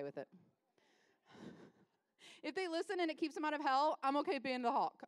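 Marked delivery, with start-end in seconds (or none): 2.4-5.0 forceful burst, a touch louder; a bit much. Real, not acted. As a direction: push it out like a mild Hulk moment. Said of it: "was that too much".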